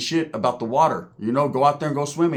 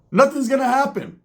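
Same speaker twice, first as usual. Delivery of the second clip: higher-pitched, drawn-up dismissal; high-pitched insistence; 9 semitones higher than usual. Real, not acted. Vlogger dismissing a rap feud, high-pitched insistence. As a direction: wave it off in a raised voice.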